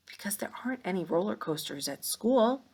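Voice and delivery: a thinking-aloud whisper. Shown as a demonstration. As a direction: whisper your reasoning to yourself.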